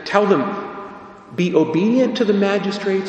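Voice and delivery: loud, high quoted command; emphatic command. Retold or imitated. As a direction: proclaim it like an order. Quoting Paul's command.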